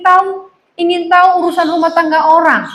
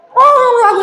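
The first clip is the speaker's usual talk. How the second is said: high, sudden mock-angry Batak outburst; comically angry-sounding Batak accent; Batak, startlingly fierce; 9 semitones higher, faster than usual. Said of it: "sampai kaget-kaget bisa jantungan orang".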